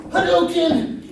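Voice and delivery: loud high battle cry; shouted Hadouken. Pretend. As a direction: yell it like a game fighter. Shouting Street Fighter special move.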